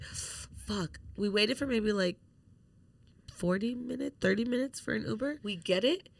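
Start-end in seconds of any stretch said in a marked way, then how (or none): 0.0-1.0 breathy whispered swear; whispered curse. Retold or imitated. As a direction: whisper it under your breath. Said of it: "We're like".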